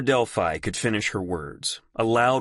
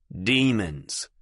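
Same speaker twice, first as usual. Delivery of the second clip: cool, even tone. Acted. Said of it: "in a cool, even tone".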